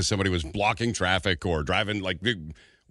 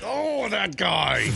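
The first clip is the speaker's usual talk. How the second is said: exasperated; 9 semitones higher, much slower than usual. Real, not acted. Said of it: "exasperated at son".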